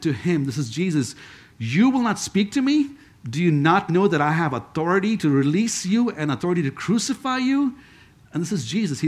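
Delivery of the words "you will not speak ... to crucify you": mildly indignant challenge, rising at the end; pitched up on the opening and closing words; indignant questioning. Acted. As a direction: read it as an affronted ruler's question. Reading Pilate's challenge to Jesus.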